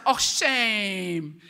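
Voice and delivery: long drawn-out teasing pity; mock sympathy. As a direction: imitate the sister's fake commiseration. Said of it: "The whole time".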